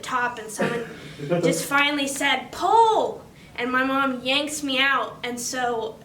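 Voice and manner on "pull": loud, higher retold call from the crowd; acted shout, pitch jumping up; shouted command. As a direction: call out the order as a bystander would. Bystander calls out an order.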